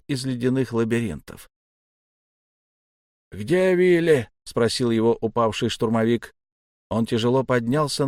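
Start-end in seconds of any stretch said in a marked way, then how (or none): 3.3-4.3 high, drawn-out shout; urgent call. A narrator's reading. Fallen trooper asking after his comrade, calling out.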